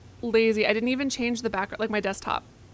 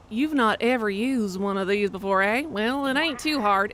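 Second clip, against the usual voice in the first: put-on Southern accent. Reader asking if one has used it before, Southern accent. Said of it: "It has to be Southern".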